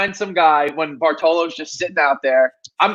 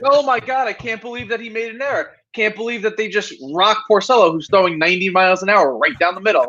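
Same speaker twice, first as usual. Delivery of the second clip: imitating a stunned fan, pitched up at first; mock surprise; 3 semitones higher than usual. Mets fan reacting to a predictable loss, mock surprise. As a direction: act out mild disbelief. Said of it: "we're still surprised".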